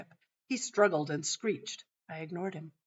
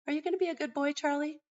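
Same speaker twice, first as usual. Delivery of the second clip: sweet, higher pleasant question; pleasant asking; 8 semitones higher, faster than usual. Retold or imitated. Mom calmly asks the screaming boy to behave, pleasantly. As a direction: ask kindly, unbothered. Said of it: "asked him again with pleasantness".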